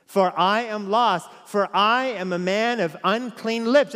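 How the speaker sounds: slow, building cry of woe; Isaiah's lament. Acted. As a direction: declaim the prophet's confession with rising intensity. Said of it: "how he responded?".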